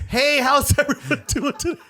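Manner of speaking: high-pitched, drawn-out hello to a crowd; stage greeting. Retold or imitated. Comic greets the crowd from under the curtain, high stage greeting. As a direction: call out an opening line, high and slow.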